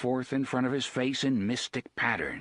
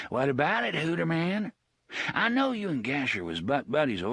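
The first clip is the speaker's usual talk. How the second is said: menacing boss voice; 4 semitones higher than usual. Acted. TikTok mocking Hoots.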